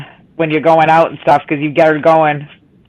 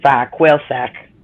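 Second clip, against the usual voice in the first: slow tongue twister; 5 semitones lower, slower than usual. Real, not acted. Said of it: "That's a tongue twister".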